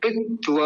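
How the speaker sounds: पित्व as pit, then open va; full va. Shown as a demonstration. Teacher stressing the last syllable, careful pronunciation. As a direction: sound the va of पित्व completely. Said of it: "पूरा रखना है".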